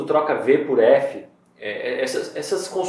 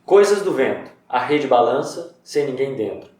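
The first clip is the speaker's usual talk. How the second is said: haiku reading. Shown as a demonstration. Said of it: "ó".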